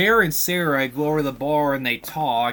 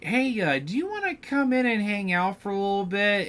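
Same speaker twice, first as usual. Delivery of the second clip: higher-pitched, casual mock invitation; imitated coaxing, pitched up; lightly voiced Nikki; 5 semitones higher than usual. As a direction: retell her invite in a slightly put-on higher voice. Voices Nikki's sudden, odd invitation.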